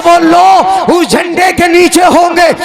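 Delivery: slow, high, ringing sermon cry; fiery preaching. Acted. Preacher rousing congregation about the flag, fiery chant. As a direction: preach it out to the crowd, drawing each phrase.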